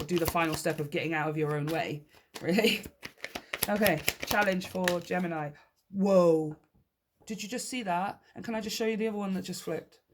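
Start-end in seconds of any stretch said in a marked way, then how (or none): 5.9-6.6 sudden, louder gasp of surprise; surprised whoa. Real, not acted. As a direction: caught off guard as a card jumps out. Card suddenly flips from deck.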